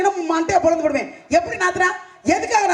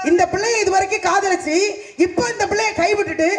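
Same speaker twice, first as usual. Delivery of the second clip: laughing. Acted. Mocking brother's fickle love.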